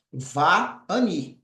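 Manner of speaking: Va-ani said slowly in two parts, va then ani; model pronunciation. Shown as a demonstration. Teacher modelling Va-ani for students, careful and clear. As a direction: spell out Va-ani syllable by syllable. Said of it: "Ficará dessa forma".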